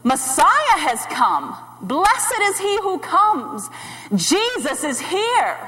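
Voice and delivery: slow, ringing acclaim; joyful hailing, without a full shout; imitated crowd shouts. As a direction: proclaim it like a rejoicing crowd, drawn out. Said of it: "the things they were shouting was".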